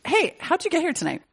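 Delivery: high, playful teasing voice; teasing question. Real, not acted. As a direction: tease the guest. Host jokes about taking Uber.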